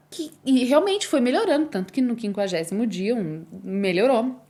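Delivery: ordinary talk, nothing marked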